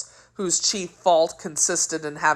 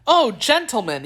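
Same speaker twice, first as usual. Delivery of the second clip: higher, pleading cry; storyteller's alarmed appeal; frightened exclamation; 7 semitones higher, 3 dB louder than usual. A narrator's reading. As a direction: call out for help, lightly acted. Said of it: "he exclaimed".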